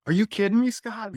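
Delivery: high, loud are-you-kidding-me; mock disbelief. Retold shocked reply.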